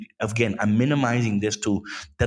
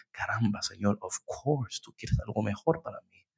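soft surrender; 3 semitones lower, 7 dB quieter than usual. Retold or imitated. Retold prayer of surrender.

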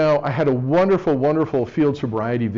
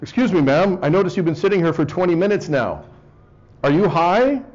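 lightly louder, official mountie questioning; officer voice; 4 semitones higher, 3 dB louder than usual. Retold or imitated. Joke cop asks the driver, hinted stern Mountie. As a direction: play the polite Mountie asking. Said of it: "the officer says".

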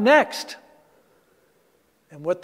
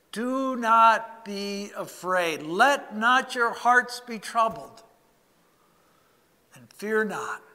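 slow, soft and reassuring, as Jesus; soft gentle voice. Acted. Jesus speaking to frightened disciples in the upper room, soft and gentle. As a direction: lay the words down gently, calming fear. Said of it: "a soft, gentle voice".

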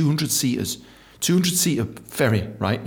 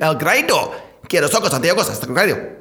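mock Mexican Spanish; half-Mexican accent; faster than usual. Joking about the lockdown grind, mock Mexican accent. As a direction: put on a comic Mexican accent. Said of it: "I'm speaking half Mexican".

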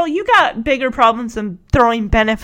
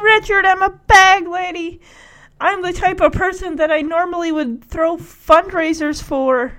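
higher, lightly acted mother's lament; mock self-pity; 5 semitones higher than usual.

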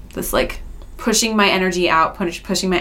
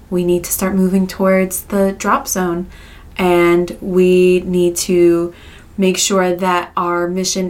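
soothing, steady reassurance; calm therapist voice. Acted. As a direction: talk them down gently. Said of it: "this is my therapist voice".

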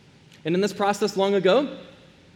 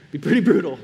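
laughing through the words, louder; 5 dB louder, faster than usual. Real, not acted. Pastor amused by the brutal old process, laughing. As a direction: chuckle it out at the thought.

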